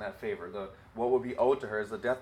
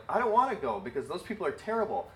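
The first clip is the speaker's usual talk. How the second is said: higher, whiny refusal; petulant, pitched-up protest; Jonah refusing; 4 semitones higher than usual. Retold or imitated. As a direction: balk at going like a stubborn prophet. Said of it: "Jonah's like".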